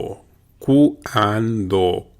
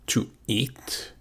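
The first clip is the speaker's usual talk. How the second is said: whispered; 9 dB quieter than usual. Shown as a demonstration. Drill translation.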